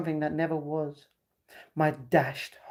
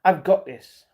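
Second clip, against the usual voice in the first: ordinary talk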